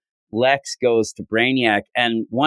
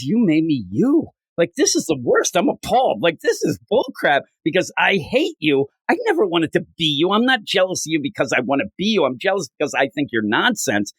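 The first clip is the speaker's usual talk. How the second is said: higher-pitched imitation of an outraged rant; mock angry rant; 5 semitones higher than usual. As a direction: act out his indignation without raising the volume. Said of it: "And so he's mad".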